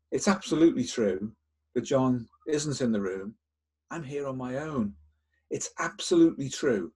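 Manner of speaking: mock earnest insistence on a lie; fake honesty. Shown as a demonstration. Therapist demonstrating a lie to the watch, fake honest. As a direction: sell the lie with hammed-up sincerity. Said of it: "with as much fake honesty as you can".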